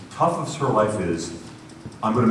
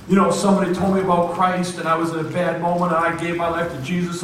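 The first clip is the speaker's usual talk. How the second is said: high-pitched, imitated breathless testimony; excited gushing; 8 semitones higher, faster than usual. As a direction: gush like an overjoyed new convert. Waitress gushes her conversion story.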